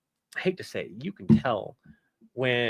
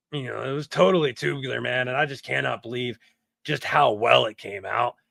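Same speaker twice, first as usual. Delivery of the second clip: surfer dude. Shown as a demonstration. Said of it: "He sounds like a surfer dude".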